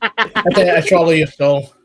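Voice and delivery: menacing voice. Acted. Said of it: "yours was the meanest so far".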